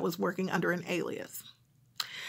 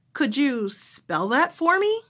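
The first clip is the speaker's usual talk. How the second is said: slow, higher caller asking; 5 semitones higher, 3 dB louder, slower than usual. Retold or imitated. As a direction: ask slowly, a bit lost. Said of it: "the person who's calling".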